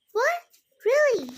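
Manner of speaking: high, loud "What? Really?" in disbelief; sudden shocked outburst. A narrator's reading. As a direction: gasp it out, stunned. Shocked at the news.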